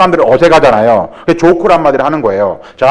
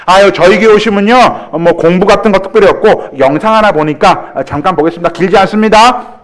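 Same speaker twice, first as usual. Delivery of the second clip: friendly pastor; 4 semitones higher than usual. Shown as a demonstration. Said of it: "딱 해요".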